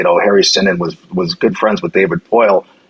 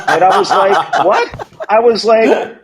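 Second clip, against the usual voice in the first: laughing while speaking; 13 semitones higher, much slower than usual. Real, not acted. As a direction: talk through laughter, pitch up high.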